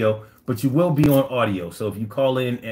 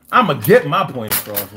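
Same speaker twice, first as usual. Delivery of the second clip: a louder, insistent repeat of the same quote; emphatic repeat; 5 dB louder than usual. Retold or imitated. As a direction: push it harder the second time. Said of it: "This man said".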